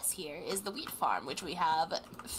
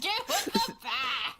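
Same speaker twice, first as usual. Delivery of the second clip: laughing; 13 semitones higher, 4 dB louder, slower than usual. Real, not acted. Laughing threat.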